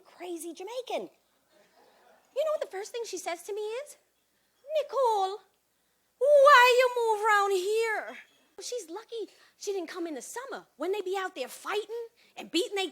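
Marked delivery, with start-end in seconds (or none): 4.8-8.2 mock wail, higher, drawn out; dismayed mother. Jamaican mother questioning her daughter's neighborhood, dismayed. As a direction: stretch it out in high, complaining dismay.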